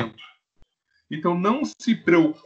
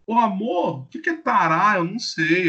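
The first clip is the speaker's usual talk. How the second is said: higher, lightly voiced wife asking; mock wife voice; 3 semitones higher than usual. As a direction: play the puzzled wife, a bit higher. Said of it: "voicing the wife". (esposa curiosa, voz um pouco mais aguda)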